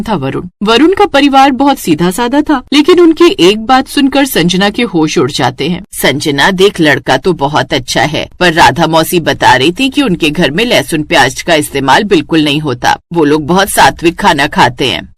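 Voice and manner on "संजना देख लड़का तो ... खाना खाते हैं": lightly voiced mother, lower pitch; persuading mother. Mother telling daughter about a suitor, gently persuading. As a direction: reason with your daughter in a lower voice.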